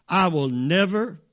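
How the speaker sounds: "I will never" firmly spaced, leaning on "never"; emphatic promise. Shown as a demonstration. Preacher showing how they heard the promise, emphatically. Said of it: "They heard it like this".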